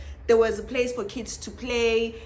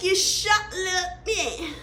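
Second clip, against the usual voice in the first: mock broken English quote; 6 semitones higher, slower than usual. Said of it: "she was like".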